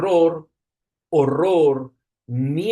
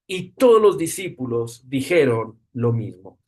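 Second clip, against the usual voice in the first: scripture reading. Acted. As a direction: read the passage with solemn weight. Reads the Gospel passage aloud.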